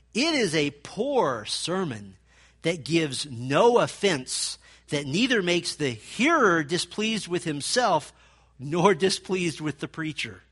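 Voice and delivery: loud, slow pulpit delivery; slow, weighty proclaiming; preacherly quote. Shown as a demonstration. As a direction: deliver it like an old revival preacher. Quoting Whitefield's sermon line.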